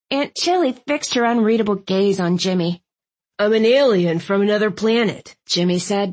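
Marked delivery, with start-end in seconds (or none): 3.4-5.4 a hint of a defiant boy; lightly voiced defiant kid. A narrator's reading.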